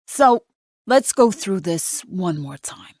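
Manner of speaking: a New York cop stretching out his words, slowly; New York drawl. A narrator's reading. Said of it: "the cop says in his New York drawl".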